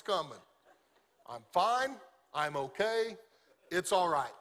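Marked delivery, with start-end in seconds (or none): 1.3-4.3 mock insisting fine. A wife insisting to her husband she's fine, in a mock-bright tone. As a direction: say "fine" like it clearly isn't. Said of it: "when a woman says everything's fine".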